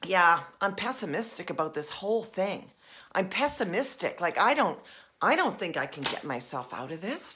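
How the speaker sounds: acting pessimistic. Shown as a demonstration. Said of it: "we're in pessimism".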